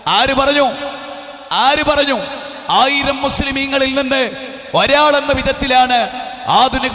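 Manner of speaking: forceful questions fired at the crowd; ringing, insistent pulpit delivery in short bursts; rousing preaching. Real, not acted. Preacher challenging the gathering about who enters heaven, rousing preaching.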